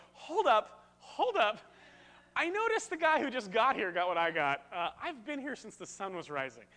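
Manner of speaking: loud, high, outraged protest; indignant grumble. Retold or imitated. Worker grumbling at the vineyard owner over unfair pay, loud and indignant. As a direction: play the cheated worker crying foul. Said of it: "I'm certain I would be the guy going".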